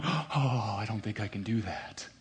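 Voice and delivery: a small, soft, put-on voice of weak excuse; mock feeble excuse. Whiny excuse. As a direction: ballplayer ducking the Pee Wee coaching job, mock feeble excuse.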